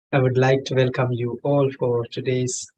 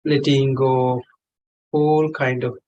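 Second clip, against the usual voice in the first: measured meditation guide with long pauses; unhurried meditation leading in short, spaced phrases; guided meditation. Real, not acted. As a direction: guide them gently, phrase by phrase, pausing long between. Leads a meditation session.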